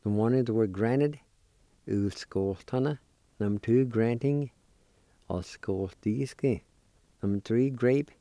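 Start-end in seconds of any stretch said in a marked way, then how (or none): 1.9-3.0 Ulskoltana measured and connected; careful pronunciation demo. Shown as a demonstration. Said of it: "I'll pronounce these words one more time". 5.3-6.6 Ulskoltiski slow and connected; careful pronunciation demo. Shown as a demonstration. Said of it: "I'll pronounce these words one more time".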